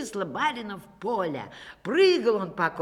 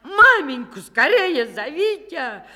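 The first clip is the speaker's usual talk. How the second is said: loud, higher, slow call; urgent shout; 7 semitones higher, 9 dB louder, slower than usual. A narrator's reading. Akim shouting to his sons for their mother. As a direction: yell it desperately. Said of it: "Кричит сыновьям".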